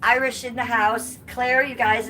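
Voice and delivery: high, loud delighted greeting; light up at the flag; excited shout-out. Real, not acted. Streamer delighted by a viewer's Irish flag, calling out excitedly.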